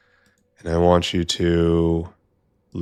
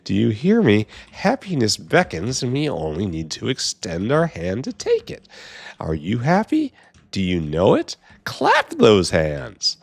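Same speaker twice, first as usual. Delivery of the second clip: happy voice; 2 semitones higher than usual. Pretend. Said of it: "This is what happy voice sounds like".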